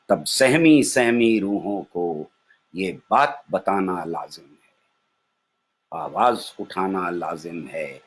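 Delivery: measured nazm recitation with pauses between phrases; कविता पाठ. Acted. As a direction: recite each line as verse, letting the refrain ring. (नज़्म पढ़ने का ठहरा हुआ अंदाज़)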